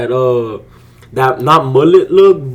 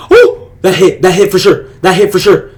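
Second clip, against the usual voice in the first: higher and louder, shouting with joy; emotional celebration; 8 semitones higher, 6 dB louder, slower than usual. Real, not acted. Trader celebrating his winning trade with viewers, joyful shouting. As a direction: yell it out as the trade wins, stretching the last go. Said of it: "Stop getting emotional".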